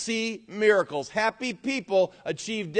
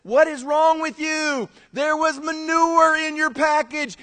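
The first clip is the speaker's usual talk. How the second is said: a touch of a bewildered father, higher and slower; puzzled dad; 10 semitones higher, 6 dB louder, slower than usual. Acted. Dad stopping his whooping son, slow and puzzled. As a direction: ask it slowly in mild disbelief. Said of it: "the dad finally stops him and he says".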